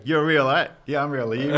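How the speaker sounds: two lonely drivers, loud pretend amazement; mock disbelief. Outback drivers greeting on an empty road, mock amazement. Drivers checking each other.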